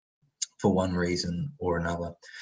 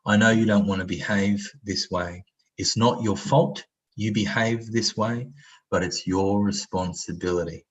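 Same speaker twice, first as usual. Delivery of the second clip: accepting voice. Shown as a demonstration. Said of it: "acceptance is about saying".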